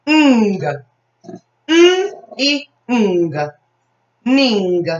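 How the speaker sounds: "N, I, ng" as separate sounds, then "Ning" blended; sounding out a syllable. Shown as a demonstration. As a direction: stretch each sound of "Ning", then join them. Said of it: "Second syllable".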